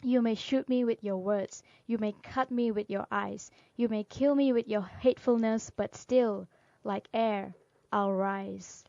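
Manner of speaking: rhythmic, firmly stressed poetry reading; poem recitation. Acted. Reading Still I Rise to listeners, firm poem recitation. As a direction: build through parallel phrases, then settle on the ending.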